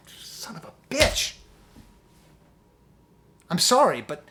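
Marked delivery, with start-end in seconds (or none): 0.1-1.3 whispered curse. Real, not acted.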